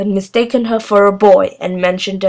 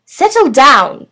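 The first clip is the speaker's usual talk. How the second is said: slow, loud, stern warning; 5 semitones higher, 6 dB louder, slower than usual. A narrator's reading. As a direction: firmly settle the class down.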